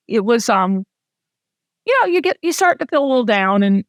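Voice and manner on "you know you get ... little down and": real emotion rising, voice starting high then sinking; getting emotional. Real, not acted. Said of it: "I'm gonna get emotional talking about it".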